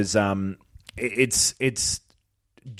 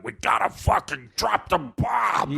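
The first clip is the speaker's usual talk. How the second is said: slow, much higher dumb soldier growl; gruff space marine; 7 semitones higher, slower than usual. Retold or imitated. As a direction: play it like a meathead space marine. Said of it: "that fucking Space Marine voice".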